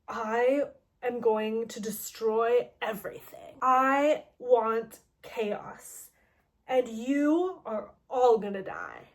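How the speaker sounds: slow, lightly voiced villain threat; menacing villain. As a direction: read it like a slow evil manifesto. Villain's manifesto read out.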